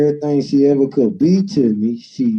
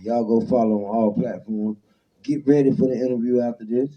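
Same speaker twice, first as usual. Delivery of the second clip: building hype chant into a live show opening; show host intro; 2 semitones higher than usual. Acted. Host welcoming viewers to the show, with an announcer's hype. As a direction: open the show like a street TV host.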